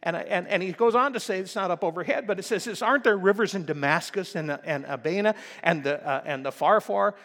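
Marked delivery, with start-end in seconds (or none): 2.8-7.1 much louder, higher, offended shouting; raging Naaman. Retold or imitated. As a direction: roar it like a proud general insulted. Went away in a rage.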